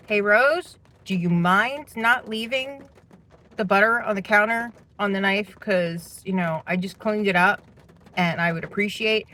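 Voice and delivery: careful, measured polite asking, lilting up at first; polite request. Retold or imitated. Speaker replaying a request to housemate about the butter, politely. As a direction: ask it politely, with small pauses between phrases. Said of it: "exactly like this, I said".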